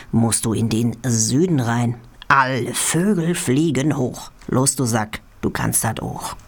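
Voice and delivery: chant-like rhyming lines, pausing between couplets; rhythmic poem recital. Real, not acted. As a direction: read comic verse with a steady bouncing beat. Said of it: "in Form einer rhythmischen Zuckung".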